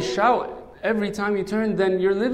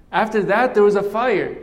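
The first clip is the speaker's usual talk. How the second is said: louder and higher, swelling with the fire; building to the fire; 4 semitones higher, 5 dB louder than usual. Acted. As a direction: let the voice rise for the fire.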